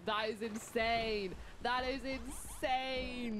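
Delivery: amazed. Real, not acted. Reacting to follower count.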